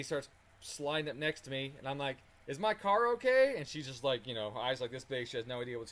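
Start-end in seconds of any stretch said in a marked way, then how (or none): 2.5-3.5 panicked question. Retold or imitated. Asking the other driver, panicked.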